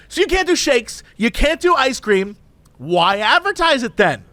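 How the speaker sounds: high-pitched, outraged customer; indignant Karen. Retold or imitated. Woman complaining to drive-through cashier, indignant. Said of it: "she's going full Karen".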